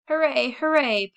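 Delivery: put-on high, loud little girls' cheer; piping cheer. Little sisters running out of the house, piping high loud hooray. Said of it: "piped Hetty and little Minnie".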